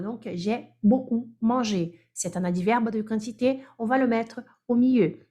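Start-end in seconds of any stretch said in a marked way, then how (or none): 0.3-2.0 slow model sentence. Shown as a demonstration. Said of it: "il y a deux syllabes".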